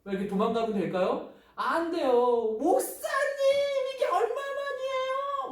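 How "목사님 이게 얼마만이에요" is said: very high, drawn-out delighted squeal; acting a child overjoyed to see the pastor; glad greeting. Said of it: "우리 친구들도 반갑게 인사하는 거".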